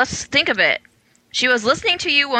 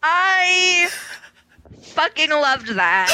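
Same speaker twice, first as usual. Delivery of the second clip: delighted rave; 4 semitones higher, much slower than usual. Real, not acted. Delighted reaction after the song.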